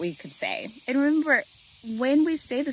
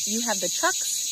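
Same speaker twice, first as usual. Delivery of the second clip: "You have the trucks" with a rising end; question form. Shown as a demonstration. Coach showing parents the difference, question inflection. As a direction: lift "trucks" to turn the sentence into a question. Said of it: "did you hear the difference".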